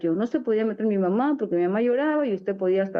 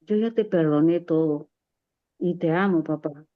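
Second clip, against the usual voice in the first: tender forgiveness; 4 semitones lower than usual. Retold or imitated. Daughter forgives her crying father.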